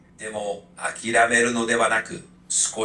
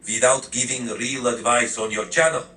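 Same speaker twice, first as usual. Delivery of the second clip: a hint of a Russian accent, stern; lightly voiced Soviet spy, tough; Moscow accent. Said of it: "put on a really thick Moscow accent".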